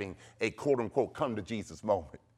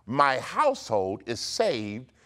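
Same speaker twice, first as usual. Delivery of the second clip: slow, deliberate decree; declaration to repeat; 3 semitones lower, slower than usual. Shown as a demonstration. Preacher giving listeners decree number four, declaring. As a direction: proclaim it firmly for others to echo. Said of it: "say this".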